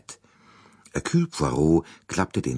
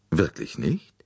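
plain reading voice

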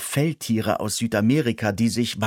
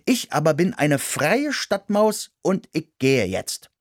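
high mouse voice; 6 semitones higher than usual. A narrator's reading. Henry refuses.

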